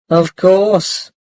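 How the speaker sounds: light smiling reassurance; with a small smile. Acted. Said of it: "said Mum with a small smile".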